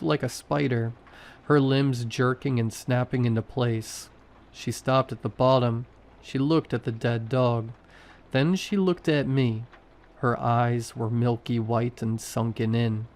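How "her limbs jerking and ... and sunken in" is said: ordinary delivery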